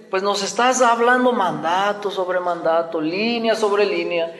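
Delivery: sing-song mocking echo of the preacher. Southern kingdom mocking Isaiah, sneering sing-song. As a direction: toss the words back to ridicule him. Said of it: "se está burlando de Isaías".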